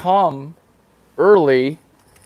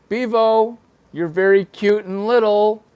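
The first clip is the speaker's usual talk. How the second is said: put-on baby talk to cow; 6 semitones higher than usual. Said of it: "I was like".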